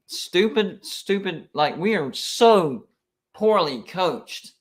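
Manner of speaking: exasperated, slowing on poorly coached; frustrated fan. Real, not acted. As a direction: vent at your own team's blunder. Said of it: "I'm getting so emotional about it".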